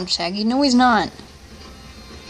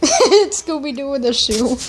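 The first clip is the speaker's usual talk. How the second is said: laughing; slower than usual. Real, not acted. Laughing at his own pun.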